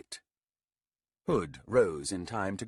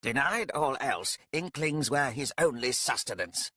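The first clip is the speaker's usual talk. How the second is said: wry aside; 6 semitones higher than usual. Acted. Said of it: "Haut pointed out".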